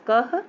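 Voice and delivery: कह as a short "kah" closed with h; halant consonant reading. Shown as a demonstration. Teacher shows children how halant ka is read, short kah. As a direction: cut the vowel of कह off with a breath. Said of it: "इसको कह पढ़ेंगे".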